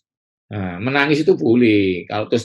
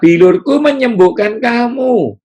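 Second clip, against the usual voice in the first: high, slow, ringing declaration; God's promise rung out slow and high; voicing God's promise; 11 semitones higher, 5 dB louder, slower than usual. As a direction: proclaim it slowly like scripture.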